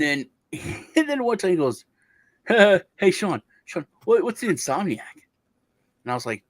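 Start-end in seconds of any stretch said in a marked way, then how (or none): 2.5-5.2 higher, louder goofy friend voice; imitating dumb friend. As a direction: play the clueless buddy, lightly. Friend voiced in prank story.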